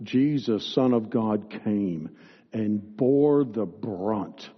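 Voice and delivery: fervent, declarative pastoral prayer; firm, projected prayer, slowing towards the end; public prayer. Real, not acted. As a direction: lead the congregation in earnest prayer. Leads the closing prayer.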